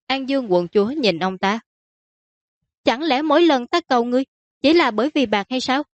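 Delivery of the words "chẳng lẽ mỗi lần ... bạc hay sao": higher-pitched, mildly indignant daughter; protesting princess. Acted. Princess protesting her father's suspicion about money, indignant.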